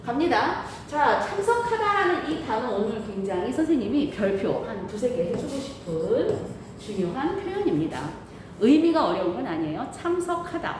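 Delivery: muffled behind a mask; talking through a mask; through a face mask. Real, not acted. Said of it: "선생님 지금 마스크를 쓰고 말하니까".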